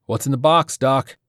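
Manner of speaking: tense soldier demanding an answer. A narrator's reading. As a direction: press him hard, breathing tight. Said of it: "His breathing was tense".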